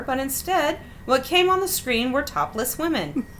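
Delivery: put-on measured read-aloud of a childhood memory; story narration. A narrator's reading. Host reading out a summer vacation story, measured narration. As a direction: read it out steadily like a written anecdote.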